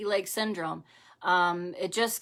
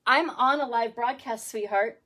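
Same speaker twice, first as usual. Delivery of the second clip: laughing; 3 semitones higher than usual. Real, not acted. Laughing telling child she's live.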